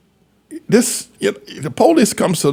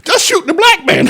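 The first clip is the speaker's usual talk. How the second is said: high, mocking voice putting words in someone's mouth; half-laughing mock order, pitched high; mock police quote; 3 dB louder than usual. Mocking what police were told.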